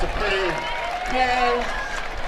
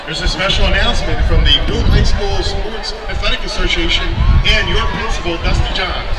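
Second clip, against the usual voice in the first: echoing stadium announcer. Real, not acted. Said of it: "I'll let the P A announcer take it".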